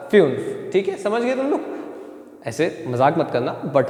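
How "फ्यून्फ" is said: फ्यून्फ with a slight "yu" glide; touch the "yu" in फ्यून्फ lightly; light umlaut. Shown as a demonstration. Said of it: "हल्का सा".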